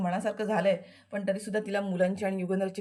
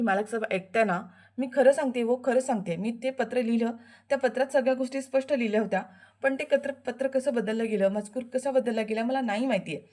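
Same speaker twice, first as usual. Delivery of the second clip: a slightly higher, earnest plea; pleading wife; 3 semitones higher than usual. Acted. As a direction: insist she is telling the truth. Anandi pleads her truth. (पतीला विनवणी करणारी आनंदी, थोडा उंच आवाज)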